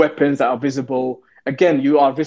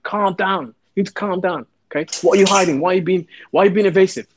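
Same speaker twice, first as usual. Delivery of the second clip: pushy police sergeant; 4 semitones higher than usual. Retold or imitated. Sergeant voiced pressing the kid.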